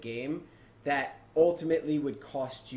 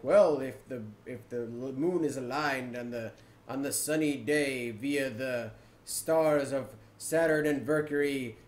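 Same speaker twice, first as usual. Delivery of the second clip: lightly hammed-up riddle reading; mock cryptic quest text. Gamer mocking cryptic quest text, lightly hammed-up reading. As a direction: parody a cryptic clue, drawing out the grand words. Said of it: "cryptic text".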